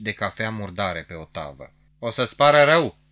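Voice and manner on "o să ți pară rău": loud, higher call thrown back over the shoulder; shouted threat. A narrator's reading. Andreea shouting back at a man in the office. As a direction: yell it at someone behind you. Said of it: "îi strigă peste umăr".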